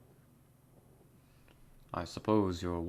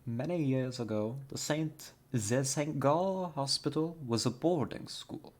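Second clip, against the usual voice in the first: lightly put-on German accent, z for th; a shaky try at German accent, the Saint as zɛ Saint; amateur German accent; 4 semitones higher, 4 dB louder than usual. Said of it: "I'll do my best".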